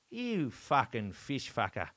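drawn-out insult in retelling; mock-accusing Aussie put-down; slow, scornful accusation. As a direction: stretch the insult out slowly, word by word. Acting Colin's confrontation in the story.

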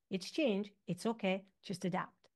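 calm yourself under your breath; soothing self-talk. Retold or imitated. Doctor tells herself quietly when stressed, soothing. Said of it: "I'm like".

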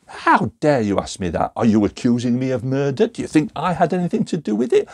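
hammed-up indignation at the detective; indignant outburst. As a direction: play the offended suspect. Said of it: "angry and emotional response".

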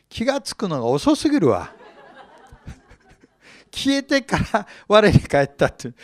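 笑いながら突っ込む; 遅すぎるペテロに吹き出しながら; laughing. Real, not acted. Laughs at slow Peter. (笑いをこらえきれずに話す)

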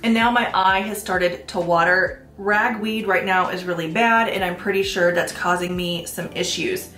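stuffy nose from allergies; sniffly, blocked-up nose; congested. Real, not acted. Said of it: "I might sound a little bit congested".

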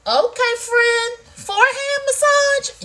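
high, loud, drawn-out teasing cheer; impressed exclamation. Acted. Host hyping friend's birthday massage, exclaiming. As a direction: stretch it out in mock amazement.

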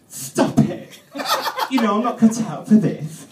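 loud high panicky squeal; panicky vegetable knife. Acted. Vegetable knife panicking at the meat, high squeal. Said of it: "he's all like".

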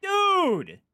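very high, loud drawn-out cry; loud exclamation. Real, not acted. Exclaims at what the game shows.

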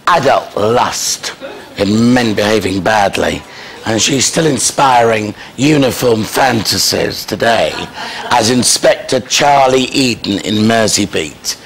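slow, measured build-up to a big name reveal; show announcer introduction. Acted. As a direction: introduce the star guest, ending on a drawn-out shout. Introduces guest to audience.

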